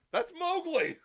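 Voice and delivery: high-pitched excited exclamation; excited recognition. Retold or imitated. Fan retelling spotting a favourite rapper in a movie, excited recognition. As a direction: re-enact a thrilled moment of recognition.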